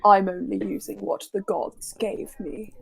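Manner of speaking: put-on a light British accent on the kobold's line; clipped British villain line, lightly done. To the party as Cruel, light British accent. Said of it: "give us a sample".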